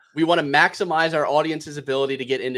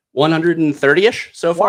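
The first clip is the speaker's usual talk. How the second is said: louder, slower proud reveal; excited announcement; 9 dB louder than usual. Real, not acted. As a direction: land the record number with a flourish. Announcing record user count.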